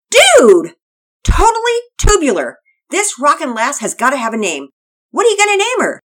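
very high, loud surfer dude shout; a stoked skater boy yelling with delight; Todd the surfer kid. Acted. Todd voiced excited.

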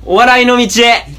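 measured, projected farewell-speech delivery; mock public declaration. Apologises to fans for switching to comedy, mock formal announcement. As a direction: declare it solemnly in separated phrases.

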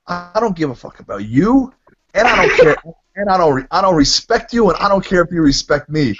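retold pissed-off outburst. Caller provokes drunken Gary on the phone, retold anger. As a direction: replay a heated brush-off. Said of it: "I was getting pissed".

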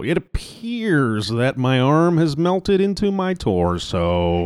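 very slow weather reporter drawl; slow newscaster voice. Pretend. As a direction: read it like a melted weatherman. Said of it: "your outdoor extreme weather newscaster voice".

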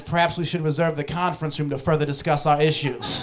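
lightly put-on office-professional voice; a hint of formal, college-educated speech, every syllable given; white people voice. Black office worker code-switching at the bank, lightly put-on white people voice. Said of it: "regular white people voice".

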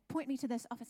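soft urgent whisper; secretive whisper. Retold or imitated. Staff hurrying Susie into the office, whispering. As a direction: hush it so nobody hears.

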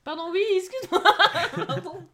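laughing loudly while apologizing. Real, not acted. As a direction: say it through laughter.

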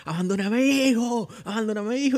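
high strained cry of the confession; high pleading cry; forced confession cry. Retold or imitated. Acted forced confession shout.

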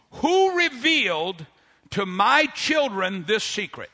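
slow, solemn proclamation; heavenly voice. Acted. Preacher voicing heaven about the children's secret, slow and grand. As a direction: draw the words out as a voice from heaven. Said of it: "a heavenly voice came and said".

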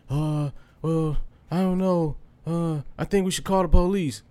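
halting, slightly high retold reply; hesitant other-driver impression; imitated hesitation. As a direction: mimic an unsure driver, with pauses. Retold driver hesitating about police.

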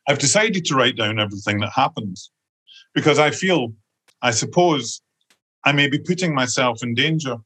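measured literary reading with short pauses between phrases; story narration. Acted. Author reads a young woman's notebook to the audience, measured narration. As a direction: read out the notebook's opening, phrase by phrase, lightly lifted.

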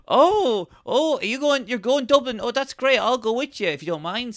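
very high, excited mock-polite voice; retold eager traveller. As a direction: ask for a lift in a hammed-up squeal. Acts eager hitchhiking woman in story.

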